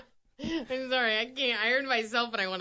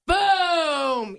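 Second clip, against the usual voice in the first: explosive boom. Shown as a demonstration. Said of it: "like a bomb's coming".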